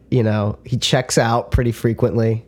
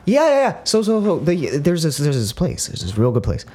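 Jeff Goldblum; 2 semitones higher than usual. Acted. Showing co-host a constant actor impression, stammering down to a whisper. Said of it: "if I sounded like Jeff Goldblum".

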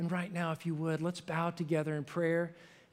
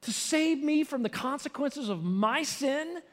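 tearful wonder; 7 semitones higher, 3 dB louder than usual. Retold or imitated. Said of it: "my eyes filling up with tears".

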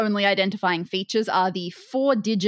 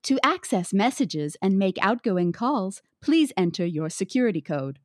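automated phone message. Acted. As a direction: read it like a phone system prompt. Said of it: "an automated voice that says".

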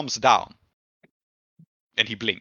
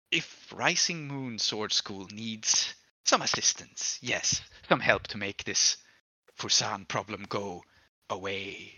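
slow, soft, creeping demon voice; slow and quiet, savouring each word; eerie demon offer; 5 dB quieter, slower than usual. Acted. Demon slowly offering the school its help, soft and creeping.

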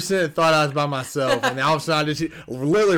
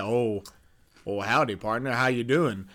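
lower, softer Southern cowboy greeting; super country accent; 4 semitones lower, 5 dB quieter than usual. Acted. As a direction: try a deeper country accent on it. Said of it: "super country accent having motherfucker".

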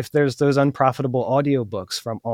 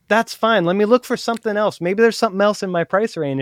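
easygoing reply; 6 semitones higher than usual. Acted. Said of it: "And I'll say".

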